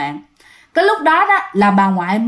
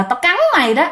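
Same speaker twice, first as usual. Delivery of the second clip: higher eerie threat, cắn stressed; ghost threat; 5 semitones higher, faster than usual. Retold or imitated. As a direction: sneer it like a ghost. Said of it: "cái kiểu bú láo là".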